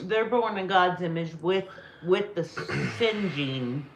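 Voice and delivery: talking through a mouthful; words round a bite of food; mouth full. Real, not acted. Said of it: "Sorry, I'm talking with my mouth full".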